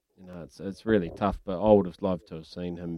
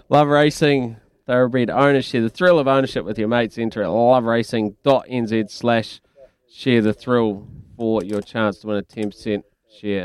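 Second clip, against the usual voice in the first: louder, punchy sponsor read; live ad read; 2 semitones higher, 5 dB louder than usual. Real, not acted. Radio host reading a racehorse ownership promo, ad read.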